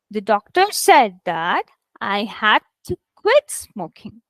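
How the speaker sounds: deliberate read with "quit" stressed; stressed key words. Shown as a demonstration. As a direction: model the sentence, leaning on "said" and "quit". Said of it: "Quit is also having a lot of stress".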